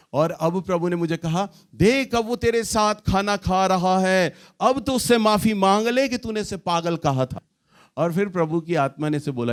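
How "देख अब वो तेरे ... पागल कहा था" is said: voice of the Lord. Retold or imitated. God urging the wife at breakfast.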